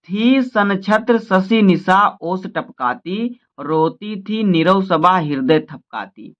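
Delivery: slow, measured verse reading; slow, solemn reading of the verse; poem recitation. Acted. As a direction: let the night image unfold line by line.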